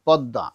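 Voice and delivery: পদ্মা as "pod-da", silent m; slightly nasal pronunciation. Shown as a demonstration. Teacher shows pupils পদ্মা as "podda", slightly nasal. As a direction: double the d in পদ্মা, slightly through the nose. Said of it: "একটু নাকে আসবে".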